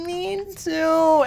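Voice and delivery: high-pitched put-on enthusiasm; fake delight. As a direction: feign thrilled agreement, way up high. Acting fake delight at shared hometown.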